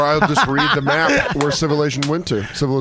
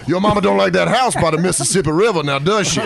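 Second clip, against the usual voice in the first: football recruiter voice. Acted. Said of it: "sound like a football recruit".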